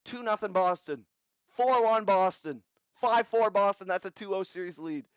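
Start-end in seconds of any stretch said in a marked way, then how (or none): 1.6-3.9 louder, higher hockey score update; excited score call. Real, not acted. Calling Boston's rising score.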